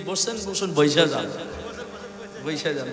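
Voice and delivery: a light mock of the Bangladeshi preacher's dialect; imitating the Bangladeshi preacher. Preacher lightly mimicking the famous Bangladeshi speaker's dialect. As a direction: lightly put on his Bangladeshi way of saying "বৈশা যান". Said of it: "ওই যে কি".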